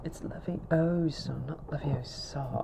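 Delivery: acted film quote. Schoolkids mocking a know-it-all, high acted British voice. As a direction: go high and indignant, drawing words out. Acting out Harry Potter scene.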